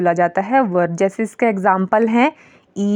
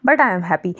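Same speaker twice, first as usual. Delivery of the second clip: slow example read; much slower than usual. Shown as a demonstration. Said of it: "जैसे हो गया".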